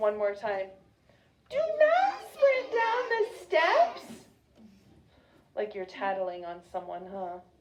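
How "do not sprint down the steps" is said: put-on loud, very high, swooping baby talk. A leader has listeners repeat a sentence, saying it in a baby voice. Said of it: "Say it in a baby voice".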